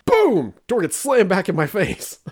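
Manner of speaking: a big, high boom for the door; mock sound effect, loud. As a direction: shout the sound of the door flying open. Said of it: "door thrown open".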